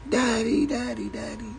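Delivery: put-on high child voice calling out Daddy; imitating excited kids. Father imitating his children running to greet him, high squeal. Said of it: "my children run to me screaming".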